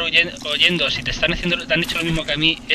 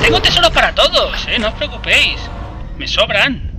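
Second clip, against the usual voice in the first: much higher mock Gollum, generous taunt; 7 semitones higher, 5 dB louder than usual. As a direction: hand out treasures like a giddy Gollum. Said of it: "Parecen Gollum". (voz de Gollum aguda y burlona repartiendo tesoros)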